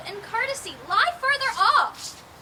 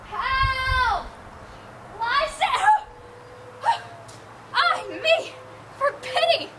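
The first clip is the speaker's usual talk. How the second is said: frightened calling; 3 semitones higher, much slower than usual. Acted. Hermia waking alone from a nightmare, frightened cries. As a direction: wake in terror and call for him.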